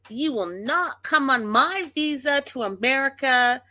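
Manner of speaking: high, swooping imitated warning; mock angry threat. Vlogger imitates wife threatening his visa, mock anger.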